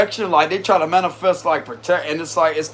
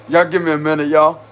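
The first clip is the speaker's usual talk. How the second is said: laughing. Real, not acted. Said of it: "I'm trying not to laugh that much".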